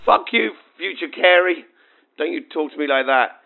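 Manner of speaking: high, loud playful indignation; mock outrage. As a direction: snap back in jest. Joking retort to her future self.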